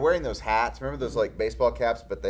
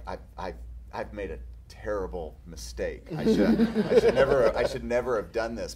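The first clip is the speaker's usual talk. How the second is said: mock panic; 6 dB louder than usual. Calling his wife mid-shoot, laughing mock despair. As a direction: wail it with a laugh breaking through. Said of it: "my wife will get a call".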